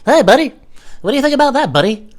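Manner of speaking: high, loud patronizing greeting; mock chummy condescension; condescending. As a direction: talk down to him in a high, over-friendly voice. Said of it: "It's so fucking condescending".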